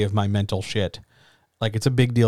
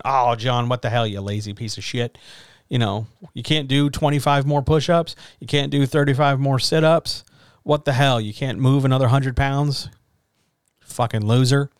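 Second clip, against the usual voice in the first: angry self-scolding; 3 semitones higher than usual. Retold or imitated. John at the gym cursing himself as lazy, mock angry scolding. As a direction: berate yourself like a drill sergeant in your head. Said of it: "I can get angry at myself".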